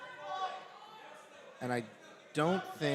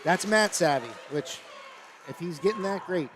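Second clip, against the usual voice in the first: raised, enthusiastic analyst voice; excited praise; 5 semitones higher, 5 dB louder than usual. Real, not acted. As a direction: praise the move with real excitement. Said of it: "You sound pretty excited".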